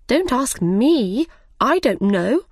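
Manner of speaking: a slow, curt brush-off; impolite. Acted. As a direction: snub the Queen, not bothering to be polite. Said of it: "not very politely".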